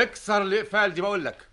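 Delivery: high, sharp royal order; angry command. Acted. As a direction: snap the order at him. King insists on breaking the locks.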